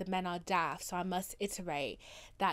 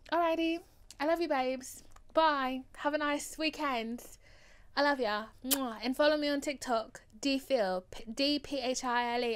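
bubbly goodbye; 3 semitones higher, 3 dB louder than usual. Real, not acted. Bubbly sign-off to listeners.

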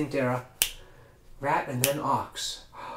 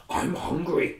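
whispered I'm hungry; 3 dB quieter than usual. Acted. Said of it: "and said".

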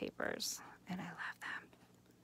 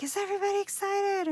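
high, bright-eyed mock teacher voice, louder; imitating the teacher; 12 semitones higher, 5 dB louder than usual. Craft teacher rallying her class, imitated high and eager.

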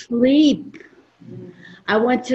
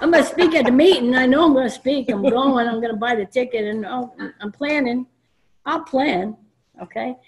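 louder, higher, laughing rattle; laughing mimicry; 4 semitones higher, 3 dB louder than usual. Speaker imitates Mitch's plans while laughing. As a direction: crack up mid-imitation. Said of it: "he told me".

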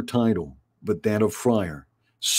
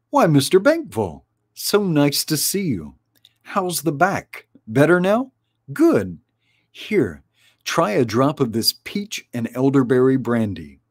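higher, quick and chatty hostess; fussing hostess; 4 semitones higher than usual. Acted. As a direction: fuss over an old friend's back. Another helper greeting guest.

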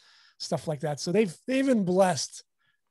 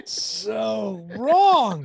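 laughing; 3 semitones higher, 7 dB louder than usual. Real, not acted. Laughing at the referee's call.

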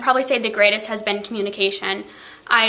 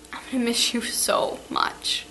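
tearful goodbye; 5 dB quieter than usual. Real, not acted. Teacher's tearful farewell to students.

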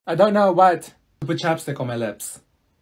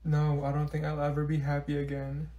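mopey sad; 7 dB quieter than usual. Acted. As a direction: drag each word like nothing matters. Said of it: "She looks so sad".

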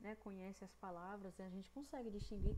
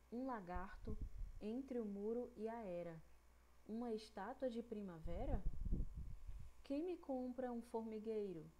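poem reading. Shown as a demonstration. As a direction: read the poem so kids can hear each syllable. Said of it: "eu vou fazer a leitura de um pequeno texto".

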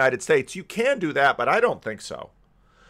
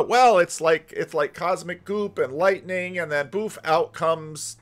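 higher-pitched parody of a vague answer; mock explanation; 5 semitones higher than usual. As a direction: imitate someone floundering through a silly theory. Mocks a vague origin-of-life answer.

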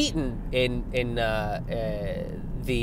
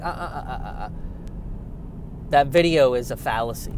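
mock stammering critic. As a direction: fumble for words and then declare it. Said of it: "And they're like".

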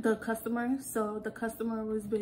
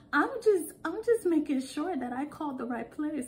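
lightly imitated nervous customer, high start; a touch of timid insistence; shaky, terrified caller; 5 semitones higher than usual. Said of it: "her voice sounded so shaky".

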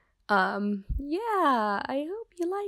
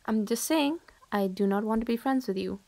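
a fed-up friend pushing someone away, often hushed; cold rejecting friend. Acted. To the clingy admirer who won't leave, cold and irritated.

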